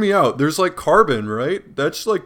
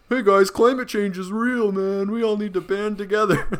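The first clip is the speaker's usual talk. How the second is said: Tim Robinson impression; 9 semitones higher than usual. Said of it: "Tim Robinson in a hot dog costume going like".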